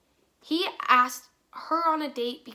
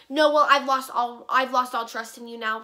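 flipping out, retold; 6 dB louder than usual. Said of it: "He flips out on me".

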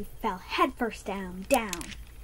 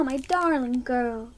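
tender; slower than usual. Acted. Mother embracing daughter.

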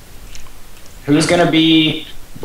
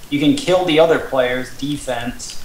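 slower rule-reading delivery; reading rules aloud. Real, not acted. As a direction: read the rule out evenly, unhurried. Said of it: "while I read the rules".

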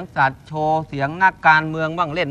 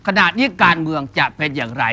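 lightly imitated news commentator, a little lower; Suthichai Yoon; 4 semitones lower than usual. Shown as a demonstration. Performer teasing viewers with a political question, light reporter impression. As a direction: pose it like a political reporter on air. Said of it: "เป็นผู้ที่รายงานข่าวเกี่ยวกับการเมืองคุณสุ".

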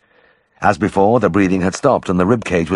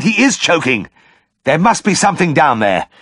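high, loud and urgent; urgent shout; 11 semitones higher, 3 dB louder than usual. Acted. Vet shouting to the owner over the dog, high and urgent. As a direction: call it out in a rush of realisation. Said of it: "I shouted".

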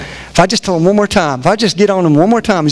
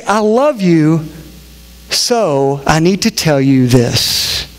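slow, lower loving lead-in; gentle correction; 4 semitones lower, much slower than usual. Shown as a demonstration. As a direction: say it slowly and kindly. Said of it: "If we say".

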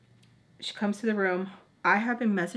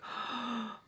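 small acted gasp of fright; scared gasp; 4 semitones higher, 8 dB quieter than usual. Girl waiting for news, scared gasp.

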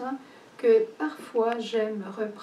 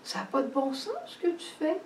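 Martha protesting; 3 semitones higher, 5 dB louder than usual. Retold or imitated. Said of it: "elle va dire".

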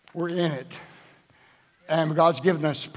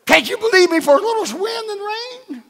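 much higher, louder exasperated rebuke; voicing Jesus rebuking; 6 dB louder than usual. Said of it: "And I get up and say".

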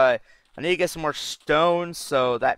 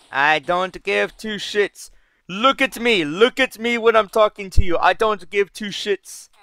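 high-pitched, hammed-up indignant rant; mock scolding, high and drawn out; comedy skit character; 6 semitones higher than usual. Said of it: "heard that from a fucking comedy skit".

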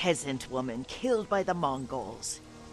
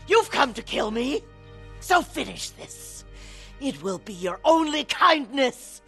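raised, impassioned challenge; bitter dare; 4 semitones higher than usual. Acted. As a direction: goad your sister to finish it. Daring sister to kill her.

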